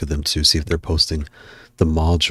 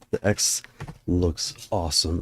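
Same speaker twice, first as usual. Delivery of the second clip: whispered; 11 dB quieter, slower than usual. Real, not acted. Repeats phrase whispered.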